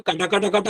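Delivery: rapid, repeated "kata" crunch noise; teeth-crunching imitation. Dead man chewing the rice in anger, mock crunching. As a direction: imitate grinding on raw rice grains. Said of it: "ಅಂತ ಕಡಿತಾವನಂತೆ".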